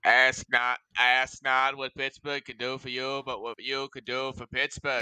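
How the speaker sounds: mock presidential speech; John F. Kennedy. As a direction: parody of a famous inaugural line. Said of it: "famous, uh, Pittsburghian, John F. Kennedy".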